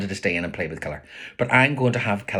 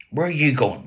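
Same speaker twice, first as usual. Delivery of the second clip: mild shout; 6 semitones higher, 4 dB louder than usual. Retold or imitated. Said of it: "Ma shouts after Paddy".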